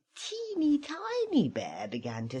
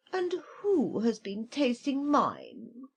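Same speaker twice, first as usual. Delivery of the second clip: a touch higher, slightly slow bear voice; middling-sized voice; 6 semitones higher than usual. Acted. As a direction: middle bear, mildly cross. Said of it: "cried the middling-sized bear in a middling-sized voice".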